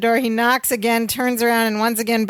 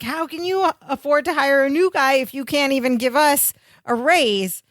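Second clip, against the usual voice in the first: higher-pitched retold protest; mildly indignant; 4 semitones higher than usual. Larry challenging his boss over the new hire, mock indignation. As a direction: imitate an indignant employee, without shouting. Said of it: "gets even more mad and indignant".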